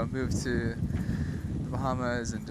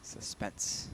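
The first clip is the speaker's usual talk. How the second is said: hushed suspense whisper; 6 dB quieter than usual. Pretend. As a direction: breathe it in a hush. Waiting for the judges' verdict.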